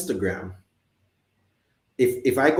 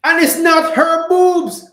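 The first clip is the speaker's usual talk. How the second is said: high, loud, drawn-out protest; indignant objection; 11 dB louder, slower than usual. Acted. Mimicking a critic listing what is fake, indignant shout. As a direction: wail the complaint, stretching each word.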